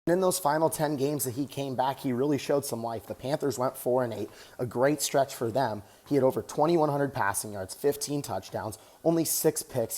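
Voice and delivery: talking while jogging on a treadmill; a little winded mid-run; while running. Real, not acted. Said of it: "Just getting some cardio in right now".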